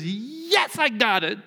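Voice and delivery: smug eager answer. Acted. Simon answering Jesus smugly.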